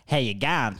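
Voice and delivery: a whole crowd yelling it at once; big shouted greeting through laughter. Retold or imitated. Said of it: "they just go".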